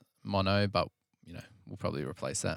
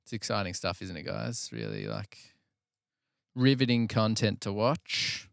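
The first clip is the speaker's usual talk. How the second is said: sarcastic; 5 dB louder than usual. Real, not acted. Jokes that editing is exciting.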